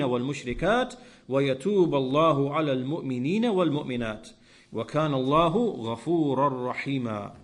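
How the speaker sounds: fast, flowing recitation of the verse; Quran recitation. Acted. Preacher quoting the verse to his listeners, swift recitation. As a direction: chant the Arabic verse in one swift breath.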